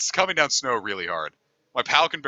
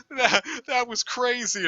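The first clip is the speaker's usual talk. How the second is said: put-on drunk rambling; 12 semitones higher than usual. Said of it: "constantly swapping between just like".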